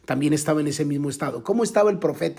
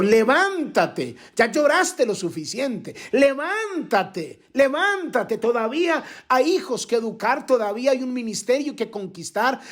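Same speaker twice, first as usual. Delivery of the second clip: fiery preaching; 7 semitones higher than usual. Acted. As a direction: stretch each levántate like a rallying cry. Preacher's climactic call to rise.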